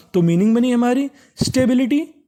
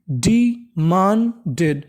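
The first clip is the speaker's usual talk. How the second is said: slow syllable by syllable; much slower than usual. Shown as a demonstration. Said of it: "तो meaning बनी".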